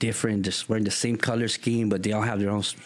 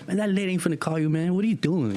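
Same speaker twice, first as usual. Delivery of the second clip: high, fast scoffing; mocking friend; 9 semitones higher, faster than usual. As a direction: scoff at his hopes. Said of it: "friends mocking".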